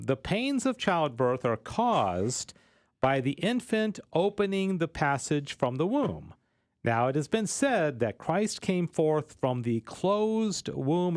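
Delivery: formal reading with spaced phrases; reading aloud. Acted. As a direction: read the passage out deliberately. Reads a quoted passage.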